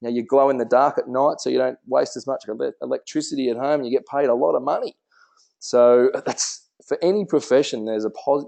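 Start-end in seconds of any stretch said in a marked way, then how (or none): 0.0-5.0 enthusiastic praise. Shown as a demonstration. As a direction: gush with tongue in cheek. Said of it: "you'd say".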